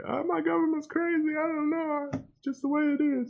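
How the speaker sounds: high, put-on Russian accent; imitating a Russian computer nerd in a Russian accent; mock Russian accent. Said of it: "Is that your attempt at a Russian accent?".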